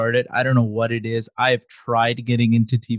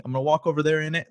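mock UK slang; 4 semitones higher, 4 dB quieter, much faster than usual. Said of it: "you just say "in it" all the time".

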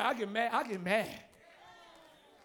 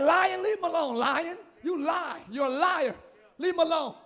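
rebuking demons. Shown as a demonstration. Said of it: "you say".

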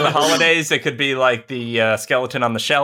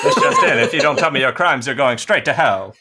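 radio announcer. Acted. Mock megaphone announcer.

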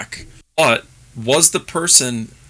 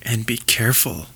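spooky whisper; 3 semitones lower, 4 dB quieter than usual. Acted. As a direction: whisper it like a ghost story. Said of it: "something to startle everybody".

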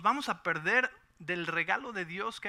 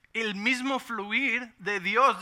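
slow drawn-out preaching; 4 semitones higher, 6 dB louder, much slower than usual. Acted. Pastor drawing out the line to the congregation, slow. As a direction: stretch every word out slowly.

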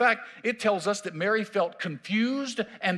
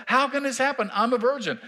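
raised pitch, mildly incredulous Mary; voicing Mary; 5 semitones higher, 3 dB louder than usual. Mary questioning the angel, raised and incredulous. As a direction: ask it as a bewildered young girl would.

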